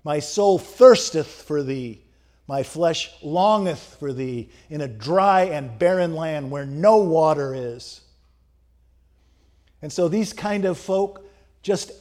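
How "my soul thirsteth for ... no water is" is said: louder, slow, fervent psalm reading; slow, louder fervent cry to God; psalmist crying out. Retold or imitated. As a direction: cry it out slowly like a prayer of longing. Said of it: "The psalmist cries out".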